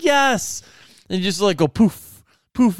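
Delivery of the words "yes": triumphant yes. Retold or imitated. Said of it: "I was like".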